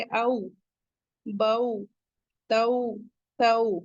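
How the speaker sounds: او، بو، تو said softly, vowel glided not jerked; slow gentle او، بو، تو with a rounded glide; soft leen syllables. Shown as a demonstration. Teacher demonstrating soft leen reading to students. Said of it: "تو ہم کیسے پڑھیں گے".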